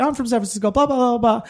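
high, mocking imitation of bar chatter; mimicking chatty expats. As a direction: rattle it off in a high mock voice. Mimics chattering San Francisco expats.

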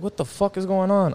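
blurting out in confusion as chaos erupts; retold shocked outburst. Retelling his shocked reaction at the crash.

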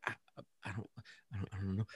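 very soft, stammering imitation; hesitant ex-wife. Ex-wife unsure how the kid hurt himself, hesitant. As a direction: trail through a tiny, unsure reply.

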